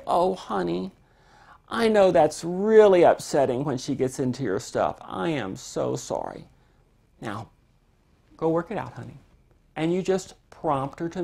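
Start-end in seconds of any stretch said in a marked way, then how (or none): 0.1-9.2 a hint of a sweet, soothing mom; sweet parent. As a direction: gently comfort the upset child. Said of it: "You want to be the sweetest, kindest moms".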